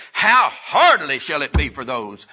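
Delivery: serious exclamation, leaning hard on "hardly"; very emphatic. Acted. Preacher quoting Jesus's exclamation to the disciples, very emphatic. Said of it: "that was a very emphatic".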